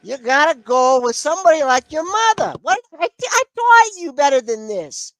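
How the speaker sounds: nagging mother. Retold or imitated. Mother lecturing son.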